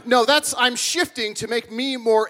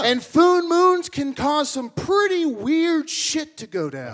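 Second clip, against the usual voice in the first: ominous; 5 semitones higher, slower than usual. Acted. Ominous warning.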